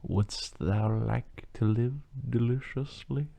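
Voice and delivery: slow, soft tempting devil. Retold or imitated. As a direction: draw it out like a whispering tempter. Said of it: "And the devil goes".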